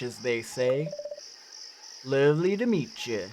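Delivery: lightly attempted Newfoundland accent; game character's mild Newfoundland lilt. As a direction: greet a visitor with a touch of Newfie brogue. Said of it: "the accent that I should be going for".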